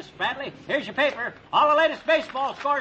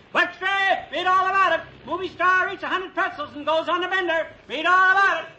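newsboy hawking; 3 semitones higher than usual. Shown as a demonstration. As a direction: bellow the headlines to draw buyers. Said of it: "The only way to sell papers is".

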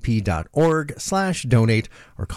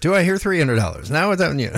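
brisk mock auctioneer call; 3 semitones higher, faster than usual. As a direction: rattle it off like an auctioneer. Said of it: "You sound like an auctioneer a little bit".

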